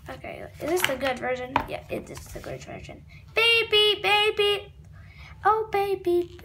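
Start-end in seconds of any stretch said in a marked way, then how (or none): 3.3-6.4 loud teasing. Acted. Teasing Daddy loudly.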